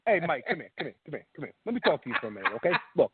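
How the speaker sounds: lightly voiced sleazy bookie; a hint of a shady bookie. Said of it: "You want the bookie voice?".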